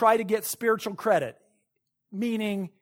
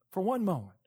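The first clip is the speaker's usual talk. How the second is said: "For one moment" softer, dropped low and quiet; soft repeat; 3 semitones lower, 7 dB quieter than usual. Real, not acted. Preacher to congregation, hushed echo. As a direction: let "For one moment" fall back quietly.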